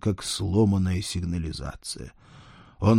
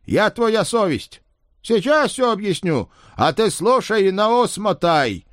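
conscience voice; 12 semitones higher, 5 dB louder than usual. Acted. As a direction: lecture him like his conscience. Spirit as conscience.

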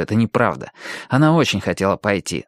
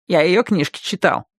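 readily offered, in a higher voice; eager; 7 semitones higher than usual. A narrator's reading. Hamster tells the others he read her books, eager. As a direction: show keen familiarity, pitched up. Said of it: "с готовностью отозвался хомяк".

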